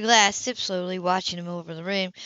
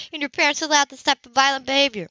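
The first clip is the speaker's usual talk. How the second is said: higher, disapproving woman; lightly raised, shocked question; Sybil's voice; 5 semitones higher, 3 dB louder than usual. A narrator's reading. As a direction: ask it primly, taken aback.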